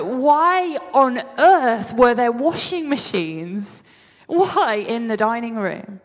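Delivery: slow, drawn-out retold bafflement; mock exasperated disbelief, slowly; baffled exclamation. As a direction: stretch out the incredulous question. Retelling her baffled reaction to dream.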